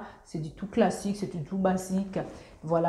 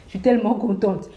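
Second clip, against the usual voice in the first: overexcited; 6 dB louder than usual. Real, not acted. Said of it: "faut que je me calme".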